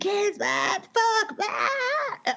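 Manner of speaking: put-on very high, long, drawn-out wailing scream. Retelling a husband calling the kids during a flood: imitating someone screaming. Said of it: "He's screaming".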